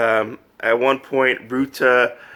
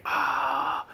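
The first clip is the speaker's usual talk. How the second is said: mock freak-out. Wolf discovering his laser powers, mock freaking out. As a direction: jump from a breath to a squeaked shock. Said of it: "He, like, freaks out".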